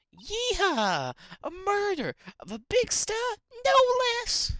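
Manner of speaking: high, whooping southern holler; thrilled, hammed-up southern voice; southern accent. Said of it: "my southern accent's not going good today".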